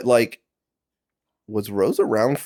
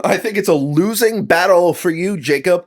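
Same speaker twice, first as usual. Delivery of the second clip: higher, louder laughing taunt at Jacob; laughing at Jacob's losing battle; laughing tease; 8 semitones higher, 5 dB louder than usual. Real, not acted. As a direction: laugh it out while mocking him.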